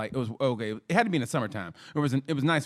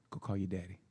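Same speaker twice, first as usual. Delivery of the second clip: menacing mom; 6 semitones lower, 12 dB quieter than usual. Retold or imitated. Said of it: "my mom just goes".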